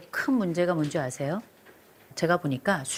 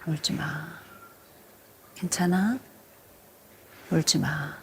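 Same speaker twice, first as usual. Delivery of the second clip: gentle comforting. Shown as a demonstration. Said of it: "이렇게 토닥토닥 하면서".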